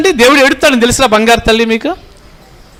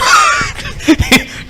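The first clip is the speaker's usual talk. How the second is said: high burst of laughter; 4 dB quieter than usual. Real, not acted. Preacher joking about pastors' day, high laugh. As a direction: laugh out high at your own joke.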